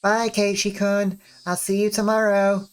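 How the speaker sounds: put-on high, sing-out girlish goodbye; high-pitched friendly farewell; Rena. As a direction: play a friendly girl in a high voice. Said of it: "our good friend Rena".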